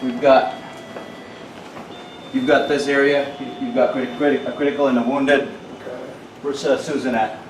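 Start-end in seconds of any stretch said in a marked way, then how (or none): 0.0-5.5 man down shout. Acted. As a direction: shout the casualties to the team. Calling out casualties in drill.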